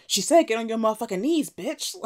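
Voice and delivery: bossy order. Retold or imitated. Acts Whisper ordering the man down.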